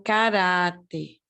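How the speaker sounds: "caráter" with a lengthened RÁ; stressed syllable drawn out. Shown as a demonstration. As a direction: lean on the RÁ in "caráter". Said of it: "estão na penúltima sílaba".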